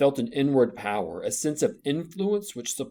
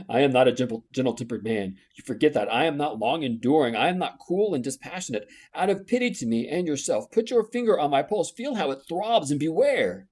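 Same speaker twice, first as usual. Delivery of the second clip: louder, intense warning building higher; passionate warning; 3 semitones higher, 5 dB louder than usual. Acted. Rochester warning Jane of his temper, louder and rising. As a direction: warn her, passion barely held.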